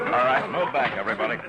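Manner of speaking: loud order to clear the crowd; commanding shout. Acted. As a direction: bark it out so the whole street hears. Marshal breaking up street fight.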